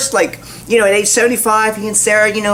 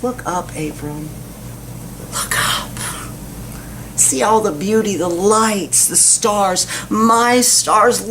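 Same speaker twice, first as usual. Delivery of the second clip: tender God. Acted. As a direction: hush it like a father showing his child the sky. God tenderly shows the stars.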